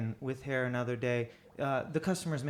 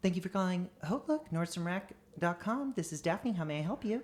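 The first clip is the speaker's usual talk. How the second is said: high feminine customer-service phone voice; 6 semitones higher than usual. Recalling answering customer service calls, using a higher femme voice. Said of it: "my like femme voice, my higher voice".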